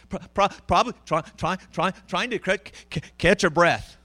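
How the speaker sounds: mock sobbing stammer, breath catching on repeated syllables; crying hard. Preacher showing how hard Hannah wept, imitated catch-breath crying. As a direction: act out gasping for air between stuttered words. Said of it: "So she's crying hard like this".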